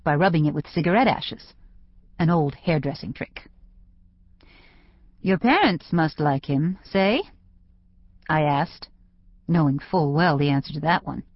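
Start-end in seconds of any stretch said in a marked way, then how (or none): 5.2-7.2 "say?" tagged on with a rise; statement turned question. A narrator's reading. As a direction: state it, then lift "say?" as a question. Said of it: "turn statements into questions by ending them".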